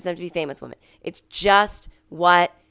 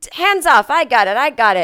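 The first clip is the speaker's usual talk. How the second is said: mock macho driver; 6 semitones higher, 8 dB louder than usual. Driver showing off with suitcase.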